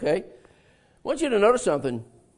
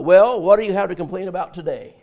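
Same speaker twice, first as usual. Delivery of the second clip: sarcastic jab; 5 dB louder than usual. Retold or imitated. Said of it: "have a different kind of attitude".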